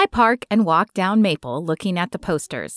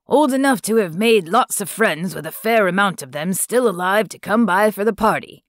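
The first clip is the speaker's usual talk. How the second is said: put-on French accent. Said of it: "He has a faint French accent".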